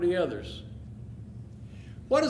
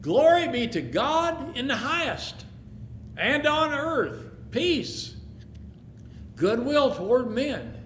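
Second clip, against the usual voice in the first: slow, raised chant of praise; heavenly host praising; 4 semitones higher, slower than usual. Acted. The host praising God over the shepherds, slow exalted praise. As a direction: sing out the praise, unhurried.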